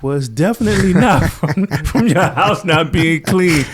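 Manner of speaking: a hammed-up voice of the visiting pest guy; imitating the exterminator. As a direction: impersonate the amazed bug inspector. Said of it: "He was like".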